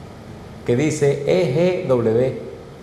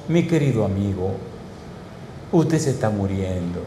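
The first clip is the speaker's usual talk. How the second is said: tender doctor; 5 semitones lower, 4 dB quieter than usual. Retold or imitated. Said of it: "me lo dijo con tanto cariño".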